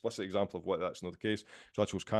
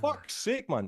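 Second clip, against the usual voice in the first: exasperated; 11 semitones higher, much slower than usual. Retold or imitated. Retelling reaction to friend's story.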